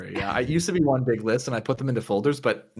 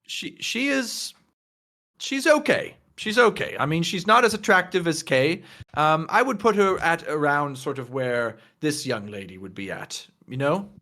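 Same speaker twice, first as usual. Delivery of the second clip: gossiping lounge patron. Acted. Game master as patron rating the lady of the house, gossipy. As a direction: lightly play a hesitant, appraising regular.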